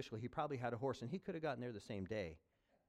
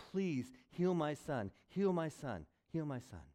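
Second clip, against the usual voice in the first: pleading; 2 semitones higher than usual. Retold or imitated.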